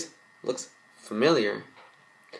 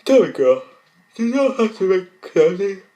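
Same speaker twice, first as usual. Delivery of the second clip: high, loud grand lady voice; lightly voiced designer; 10 semitones higher, 11 dB louder than usual. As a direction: play the grand fashion designer.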